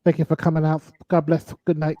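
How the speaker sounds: a hint of a lisp; Russell Simmons lisp. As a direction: sign off with a light lisp. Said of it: "Russell Simmons with his lisp".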